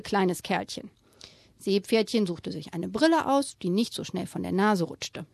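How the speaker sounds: put-on lively read-aloud for children; storyteller voice for kids; story reading. A narrator's reading. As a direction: read it like a bedtime picture book. Reads picture book aloud.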